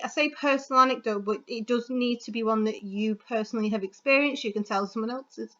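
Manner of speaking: running out of breath, speaking fast. Real, not acted. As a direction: talk breathlessly, rushing the words. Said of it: "sorry, I'm running out of breath".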